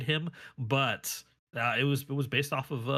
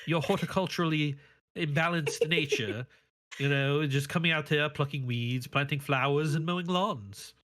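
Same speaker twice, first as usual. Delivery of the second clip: pleading foreigner; 3 semitones higher than usual. Retold or imitated. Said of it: "They're like".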